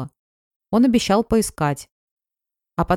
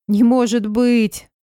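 slow, loud tearful disbelief; crying with happiness; 5 semitones higher, 5 dB louder, much slower than usual. Acted. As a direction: gasp it out through happy tears. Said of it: "заплакала от счастья".

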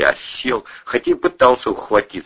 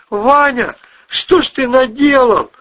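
high, loud horrified reproach; aghast at what he did; 8 dB louder than usual. Acted. Husband horrified at his cousin, high loud reproach.

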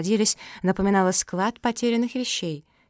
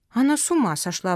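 mildly outraged, higher voice; indignant; 4 semitones higher than usual. Acted. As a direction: exclaim with a touch of outrage. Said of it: "возмутилась Мафи".

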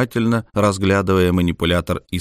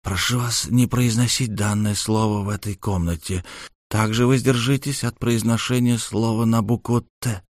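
creaky whisper; 2 semitones higher than usual. Acted. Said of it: "тихим скрипучим голосом прошептал".

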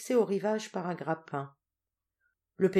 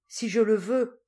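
higher, louder burst of eagerness; eager exclamation; 5 semitones higher, 6 dB louder than usual. A narrator's reading. Mother offered her daughter's return, eager exclamation. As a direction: exclaim it wholeheartedly. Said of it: "s'écria la duègne".

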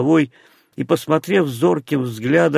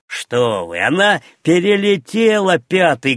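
high, excited contradiction; loud cry; 5 semitones higher, 3 dB louder than usual. A narrator's reading. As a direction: cry out to correct him, pitch shooting up. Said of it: "громко крикнул гасконец".

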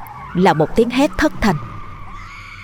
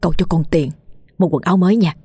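coaxing uncle; faster than usual. Acted. Uncle brushing off the niece's plea, gruff then coaxing. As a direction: brush her off, then sweet-talk.

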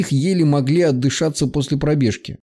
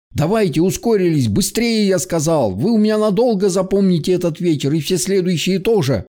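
hollering at running soldiers, higher pitch; shouting orders; 3 semitones higher than usual. Acted. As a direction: bellow encouragement and threats at the squad. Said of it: "голосил".

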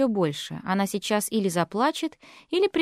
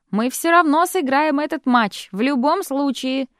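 loud declaration; 4 semitones higher, 4 dB louder than usual. Acted. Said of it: "объявила она".

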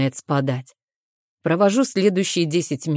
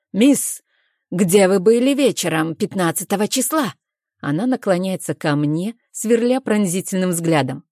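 low commanding detective; 2 semitones higher than usual. Acted. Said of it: "голос становится низким и властным".

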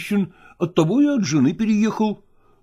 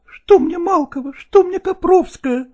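higher, louder passionate outburst; exclaiming in love; 12 semitones higher, 4 dB louder than usual. A narrator's reading. Nastina passionately declares love to Lagorsky, higher and louder. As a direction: pour out your love, building. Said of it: "воскликнула Настина".

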